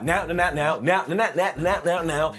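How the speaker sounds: glitching robot repeating now; stuttering machine voice; malfunctioning robot. Shown as a demonstration. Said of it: "you sound like a robot that's malfunctioning".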